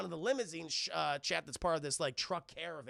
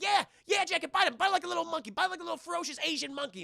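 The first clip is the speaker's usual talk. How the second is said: mock cheering; 11 semitones higher, 6 dB louder, faster than usual. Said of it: "He's like".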